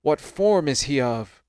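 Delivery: measured Bible story reading; scripture narration. A narrator's reading. Reader tells listeners of Saul meeting Samuel, measured narration. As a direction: read it out as solemn storytelling.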